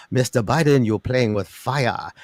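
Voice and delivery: slow, weighty mock warning from Chairman Z; lightly voiced Chinese leader, drawn out; a hint of a grave leader's threat; Xi impersonation. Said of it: "I'm gonna do my Z impersonation".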